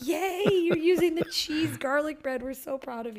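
cheering parents. Retold or imitated. Parents praising son for eating the bread, gushing sing-song. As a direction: gush like a proud mom over a tiny win. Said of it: "we were like".

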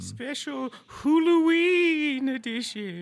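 slow, drawn-out spooky echo. Acted. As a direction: echo it like a horror host. Echoing the announcement.

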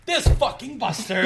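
retold annoyed outburst; mock angry. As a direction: spit it out at the friend who ditched you. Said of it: "So I went to class angry".

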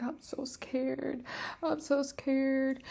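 put-on high, slow, soft whimpering child voice; a small girl rocking in terror; scared little girl. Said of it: "like a little girl just rocking".

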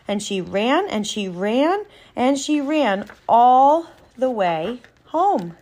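animated, measured story narration; storybook narrator with playful emphasis; storytelling to children. A narrator's reading. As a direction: read it like a bedtime tale, lilting on key words. Reads a children's story aloud.

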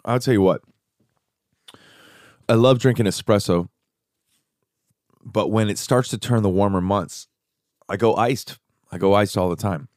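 talking around chewed ice; chewing ice while talking; ice in mouth. Real, not acted. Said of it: "Now I'm gonna chew the ice".

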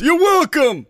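high choked-up imitation; verklempt. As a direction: imitate someone too emotional to talk. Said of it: "you sounded like you're Verklempt".

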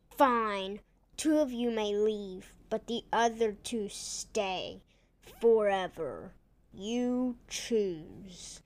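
lightly voiced demanding villain; a hint of a cold bad guy. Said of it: "Teleport Tom demanded".

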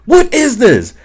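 high, loud furious bark; drill sergeant yell. Retold or imitated. Drill sergeant chewing out a private, in a high furious yell.

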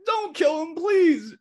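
very high mock shriek of begging; imitated desperate pleading. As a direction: beg for a friend's life in a squealed shout. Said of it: "my friend's trying to save me".

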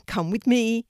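high, loud little rabbit voice; gentle rabbit calling out to a scared puppy; bright high rabbit, loud; white rabbit. A narrator's reading. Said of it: "said the rabbit".

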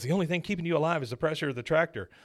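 fast, mildly urgent movie line; Ethan Hawke. Acted. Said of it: "This is Ethan Hawke".

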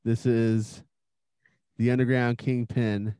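slow, smooth radio-charmer voice; oily smooth seducer. Acted. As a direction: lay it on thick and slow. Host persona intro.

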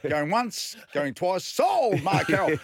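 loud, high auction call; auctioneer. Retold or imitated. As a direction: call it like an auctioneer closing a sale.

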